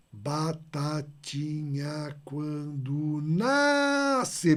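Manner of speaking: slow, syllable-by-syllable verse count, leaning on NASCE; scanning syllables. Shown as a demonstration. Teacher to students, counting verse syllables slowly. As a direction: count out "Batatinha quando nasce" syllable by syllable, landing hard on "nasce". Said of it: "vejam a minha mão".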